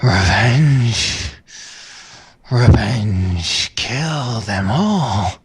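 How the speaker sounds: slow, rasping vengeful ghost; raspy furious voice. Acted. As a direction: rasp it out with fury. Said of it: "a raspy, furious voice say".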